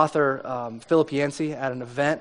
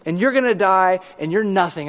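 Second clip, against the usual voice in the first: mock Herod showing off his wealth and power; imitating a taunting king, voice raised; boastful Herod; 4 semitones higher than usual. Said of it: "You can see Herod going".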